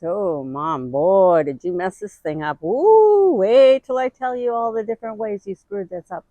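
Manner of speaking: a lightly voiced daughter gloating over mistakes; mock scolding daughter. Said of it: "wherever my daughter is".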